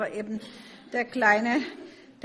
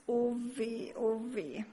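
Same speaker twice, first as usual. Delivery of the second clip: drawn-out, mildly woeful oh weh; sighing lament; 3 semitones higher than usual. A narrator's reading. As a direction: sigh like a frightened little sparrow. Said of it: "seufzte Max". (leise angedeutetes, seufzendes Klagen)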